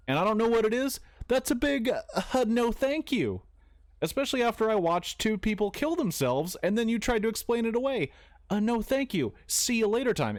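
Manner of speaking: high-pitched comic protest; emphatic refusal. Acted. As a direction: turn it down in a high, incredulous voice. Ranting refusal of cult offers.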